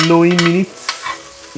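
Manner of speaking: big stretched Brummy twang; Brummy accent. Shown as a demonstration. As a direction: ham up the Brummy vowels, slow and loud. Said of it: "I sounded brummy then".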